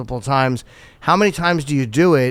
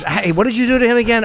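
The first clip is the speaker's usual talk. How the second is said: mock questioning; 10 semitones higher, 3 dB louder than usual. Acts a wary client questioning accountant.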